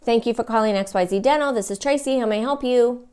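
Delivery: hurried phone greeting, a bit anxious; rushed, annoyed. Shown as a demonstration. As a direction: answer the phone as if bothered by the call. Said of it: "it might sound like".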